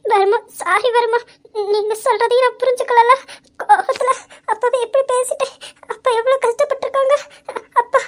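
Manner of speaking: guilt bursting out in tears; anguished realisation; shocked and tearful. Acted. Wife learns of father's suffering.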